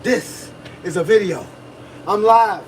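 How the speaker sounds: "This is a video" said slowly and deliberately; slow, patient "This is a video"; slow insistence. Shown as a demonstration. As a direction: lay out each word of "This is a video". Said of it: "I gotta repeat that".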